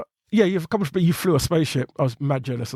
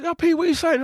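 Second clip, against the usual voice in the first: imitating the friend; 13 semitones higher than usual. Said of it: "And you call me".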